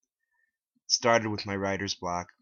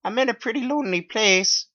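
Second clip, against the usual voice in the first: much higher and slower, weary; slow high old teacher voice; 12 dB louder than usual. A narrator's reading. Mary Lee Walsh giving her farewell speech, high and slow. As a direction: drag it out like a tired old teacher. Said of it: "she said".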